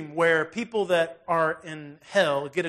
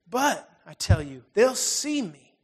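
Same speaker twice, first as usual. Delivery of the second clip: drawn-out plea; 3 dB louder, slower than usual. Retold or imitated. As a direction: stretch the fear out slowly. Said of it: "ghost pleads again".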